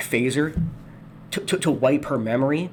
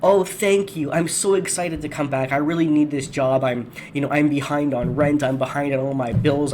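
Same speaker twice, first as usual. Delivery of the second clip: mock grateful worker. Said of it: "Do not say to your employer".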